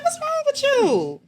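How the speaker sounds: high, loud and slow; yelling at the driver who sped up; indignant yell. Retold or imitated. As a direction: stretch it out, outraged at him. Angry driver exchange retold.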